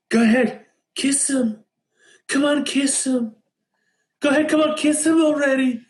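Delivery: mock cheering at the screen; imitating a loud girl egging them on; loud urging. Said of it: "Like, loud".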